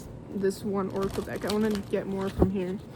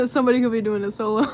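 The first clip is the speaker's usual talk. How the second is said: laughing; 3 dB louder, much faster than usual. Real, not acted. Joking pun on solitude.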